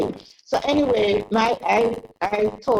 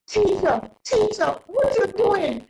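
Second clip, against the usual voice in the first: higher, lightly voiced children calling out; kids calling teacher; 10 semitones higher than usual. Kids spot their teacher and call her, lightly voiced surprised calling. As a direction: call out like curious schoolkids.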